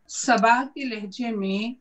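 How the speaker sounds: slow, measured verse recital; ghazal recitation. Acted. Poet reciting to a mushaira audience, measured recitation. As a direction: recite the couplet slowly, with pauses between phrases.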